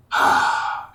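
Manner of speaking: heavy, breathy mock sigh; acted sigh. Retelling how he looked at the guy, acted sigh. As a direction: let out one audible sigh in imitation. Retold look at the man.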